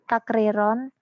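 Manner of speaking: choppy online call, dropping out; words breaking up over bad connection; corrupted glitchy audio. Real, not acted. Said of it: "ini suaranya putus-putus".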